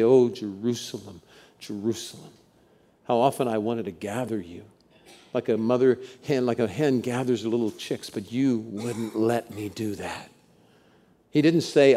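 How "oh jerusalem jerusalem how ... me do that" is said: broken-voiced lament. Jesus grieving over Jerusalem, soft broken-voiced lament. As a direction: let the voice break as you mourn. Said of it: "through that broken voice you hear him say".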